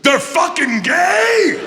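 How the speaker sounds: loud as fuck, high drawn-out shout; Joey Diaz. Retold or imitated. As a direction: blurt it out at full volume. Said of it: "Loud as fuck".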